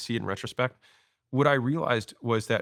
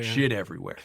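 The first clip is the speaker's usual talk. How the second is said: lightly imitated Southern accent; a touch of deep South. CFO passing on business wisdom, deep Southern accent. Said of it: "she had this deep Southern accent".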